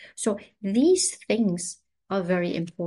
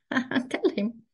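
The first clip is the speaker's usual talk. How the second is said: laughing whisper; 3 semitones higher than usual. Real, not acted. Whispered aside after quote.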